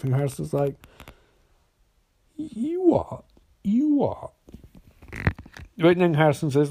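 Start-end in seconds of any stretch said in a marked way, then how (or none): 2.4-4.3 high, soft incredulous repeat; stunned disbelief. Retold or imitated. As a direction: ask it as if you misheard. Harrison stunned by Barry's plan.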